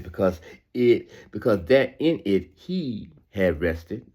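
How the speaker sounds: slow, deliberate Bible reading; solemn verses read to the congregation; scripture reading. Acted. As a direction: draw out each phrase of scripture. Reads Genesis chapter two.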